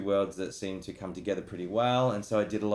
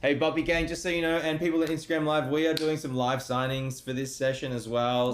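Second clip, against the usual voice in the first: raised-pitch plug to the viewers; streamer announcement; 7 semitones higher than usual. Real, not acted. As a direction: call out to the fans watching live. Announces signings to his stream audience.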